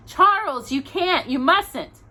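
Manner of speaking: high, loud frightened plea; pleading. A narrator's reading. Ma begs Pa not to go down the well, high frightened plea. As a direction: beg him not to go.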